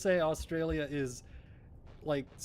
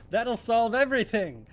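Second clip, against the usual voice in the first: mock Karen; 6 semitones higher than usual. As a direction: sneer it out like an entitled Karen. Mocking a Karen's advice.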